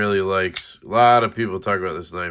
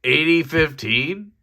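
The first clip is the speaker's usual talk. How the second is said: excited question; 6 semitones higher than usual. Retold or imitated. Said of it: "I was like".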